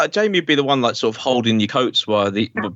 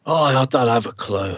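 clueless shrug of a voice with a laugh; lightly voiced, laughing; laughing mock cluelessness; mocking Ben; 3 semitones lower than usual. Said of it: "He goes".

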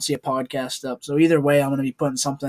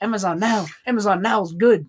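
lightly put-on Asian accent, a little higher; imitated Asian accent; 5 semitones higher than usual. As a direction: mimic a comedian's Asian accent. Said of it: "his Asian accent he puts on".

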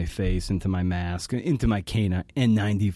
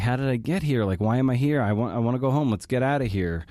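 lightly voiced bewildered mother, pitched up; imitating confused mom; 3 semitones higher than usual. Mom asking to go home, mildly imitated plea. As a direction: retell her pleading questions, a little higher. Retelling mom's anxious repeated questions.

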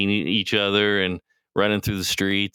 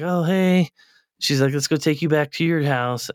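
high, louder coaxing voice; sweet talk to dog; 7 semitones higher, 3 dB louder than usual. Retold or imitated. Girl greeting the neighbor's dog, high and coaxing. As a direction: coax the dog like a pet.

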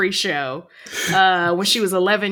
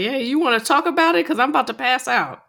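mock exhausted client; 7 semitones higher, 3 dB louder than usual.

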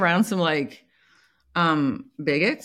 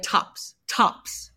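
whisper; 5 dB quieter than usual. Real, not acted. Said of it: "whispered aside".

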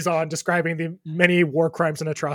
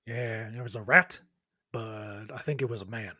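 dopey dockhand voice; 6 semitones lower, 6 dB quieter than usual. Acted. NPC dockworker voiced low.

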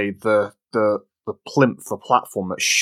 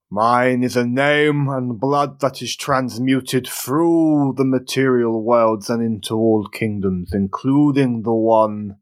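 dragon voice; 2 semitones higher than usual. Acted. Dragon speaks in story.

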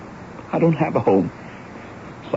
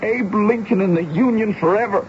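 proud declaration; 8 semitones higher than usual. Retold or imitated. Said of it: "Papa's last words were".

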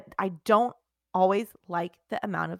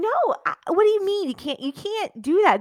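mock desperate; 10 semitones higher, 5 dB louder than usual. Mock pleading with friend.

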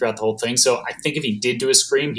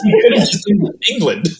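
laughing; 7 semitones higher, 4 dB louder than usual. Real, not acted. Laughing at Craig's accent choice.

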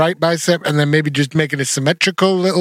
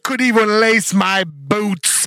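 sneering wrestling villain; 3 semitones higher, much slower than usual. Pretend. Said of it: "Do you wanna be heel?".

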